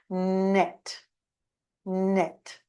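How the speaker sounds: nose pinched shut; blocked nose. Shown as a demonstration. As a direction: say it with blocked nostrils. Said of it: "you block your nose".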